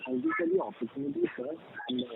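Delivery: very faint, hard to hear; low, quiet voice off the mic; barely audible. Real, not acted. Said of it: "your voice is very low".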